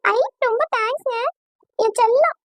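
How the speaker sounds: thrilled and affectionate. Acted. Thrilled bride thanks her fiancé.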